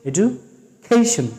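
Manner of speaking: এডুকেশন drawn out slowly with an aspirated খ on the ক; slow demo pronunciation. Shown as a demonstration. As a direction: stretch out এডুকেশন, breathing the k sound. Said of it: "খ আর ক একসাথে কি হচ্ছে?". (এডুকেশন ধীরে, খ-ঘেঁষা ক দিয়ে)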